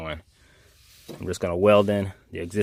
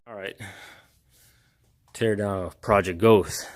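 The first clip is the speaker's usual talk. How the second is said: winded, slow words between breaths; slower than usual. Real, not acted. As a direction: talk while out of breath. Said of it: "Yeah, I'm out of breath".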